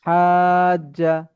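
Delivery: "হাজ্জা" sung slowly with a long held vowel; slow chanted "হাজ্জা"; drawn-out recitation. Shown as a demonstration. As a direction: stretch "হাজ্জা" out like Quran recitation. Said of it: "এমন".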